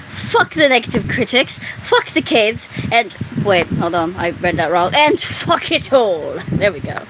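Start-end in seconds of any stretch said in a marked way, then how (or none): 0.1-2.7 put-on terrible British accent. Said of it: "That was a terrible British accent". 4.9-6.4 slow, bad British accent; hammed-up British; terrible British accent. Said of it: "That was a terrible British accent".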